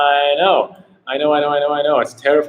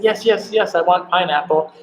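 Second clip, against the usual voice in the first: eager German tourist; 7 semitones higher than usual. Retold or imitated. German woman quoted eagerly.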